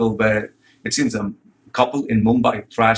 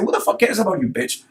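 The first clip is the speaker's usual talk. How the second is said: serious angry repeat; 7 semitones higher than usual. Real, not acted. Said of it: "Yeah, I seriously say".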